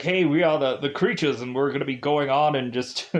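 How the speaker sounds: lightly voiced intellectual creature with dropped r's; a hint of a pompous creature voice; brainy gremlin impression. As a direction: do a goofy would-be clever gremlin, lightly. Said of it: "rattling off all these, like, weird, goofy things".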